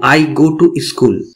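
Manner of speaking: very slow, each word spaced out for learners; teacher says it slowly so students can copy; slow English model sentence. Shown as a demonstration. Teacher models the English slowly for beginners. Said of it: "তাহলে বলবো".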